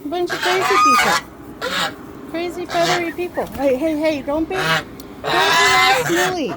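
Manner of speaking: high, teasing telling-off; playful scolding. Real, not acted. Mock-scolding her noisy chickens.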